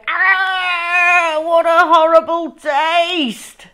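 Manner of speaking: high, loud hammed-up disgust; disgusted cry. A narrator's reading. Henry choking on a string bean, loud disgusted cry. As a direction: overplay the horror. Henry tasting poison beans.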